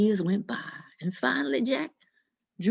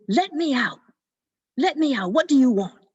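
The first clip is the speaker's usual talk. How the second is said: a bit higher, urgent yelling; mock yelling devil; 4 semitones higher, 5 dB louder than usual. The trapped devil yells from Jack's pocket, mock urgent. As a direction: pound on the pocket, demanding out. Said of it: "yelling and screaming".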